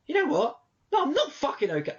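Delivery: stressed worker snapping at a customer's question; angry outburst. Retold or imitated. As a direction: blow up at the one asking. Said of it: "I have been angry".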